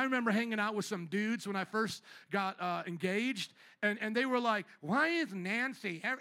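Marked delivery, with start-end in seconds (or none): 4.8-6.2 lightly mocking little-girl whine of a question. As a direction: imitate dudes as little girls, only lightly. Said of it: "They talked like little girls".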